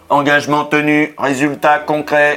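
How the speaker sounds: flat, even robotic delivery. Retold or imitated. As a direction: recite it like a machine. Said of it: "Il parle comme un robot".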